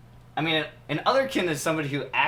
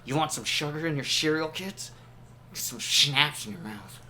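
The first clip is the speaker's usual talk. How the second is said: slasher killer; 3 dB quieter than usual. Acted. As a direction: menace the kids softly. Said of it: "you sound like a serial killer".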